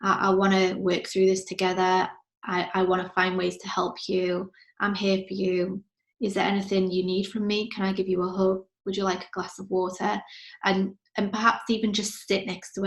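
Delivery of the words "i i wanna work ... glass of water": gentle comforting mum. Shown as a demonstration. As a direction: comfort a crying daughter. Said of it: "place my hand on her shoulder and say".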